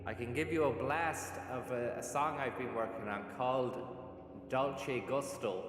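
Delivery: echoing cave effect. Real, not acted. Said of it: "which makes me sound like I'm in a cave".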